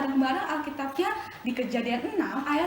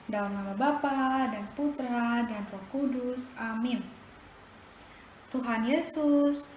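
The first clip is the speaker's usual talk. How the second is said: soft, lowered prayer voice; 3 dB quieter than usual. Acted. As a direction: pray gently with the children. Leads closing prayer.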